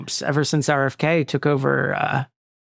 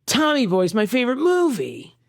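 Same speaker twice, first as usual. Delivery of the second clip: bad child actor; 6 semitones higher than usual. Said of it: "Just a bad child actor".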